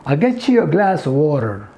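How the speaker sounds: American "get-chu", unhurried; American accent. Shown as a demonstration. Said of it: "American accent". (American लहजे में)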